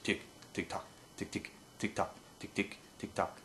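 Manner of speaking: "tick" and "tock" whispered soft and rhythmic; whispered feed chuckle. Shown as a demonstration. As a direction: whisper a ticking duck chuckle. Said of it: "a fee chuckle basically is going".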